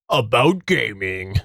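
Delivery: low, slow gamer announcer voice; gaming voice. Pretend. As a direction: drop into a deep hype gaming voice. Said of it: "That's my gaming voice".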